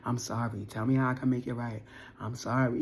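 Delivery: a touch of a remorseful lover; apologetic partner. Retold or imitated. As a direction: beg forgiveness in a low voice. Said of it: "I'm hearing that like".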